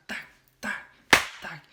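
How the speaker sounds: sharp spaced-out "tac" hits; imitated whipping blows. Teller shows how he whipped Charles, imitated blows. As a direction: sound out each lash separately. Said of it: "je l'ai fouetté comme ça".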